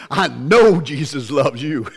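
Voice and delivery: slow, lightly put-on accent of a big Black man; imitated movie accent. Big guy in a movie rescuing crash victims, playful imitated accent. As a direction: playfully mimic the film character's accent, drawing it out. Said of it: "his accent".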